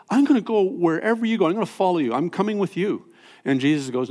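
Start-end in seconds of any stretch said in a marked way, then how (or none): 0.1-3.1 higher, fast, eager pleading; eager follower. Retold or imitated. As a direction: rush it out like he can't wait. Healed man eager to follow Jesus.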